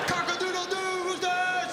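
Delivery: hammed-up cock-a-doodle-doo; rooster crow.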